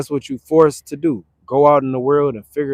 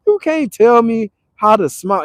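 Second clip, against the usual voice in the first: high, far put-on voice; squeaky retort to the guy; high mock comeback; 13 semitones higher than usual. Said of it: "I'm like".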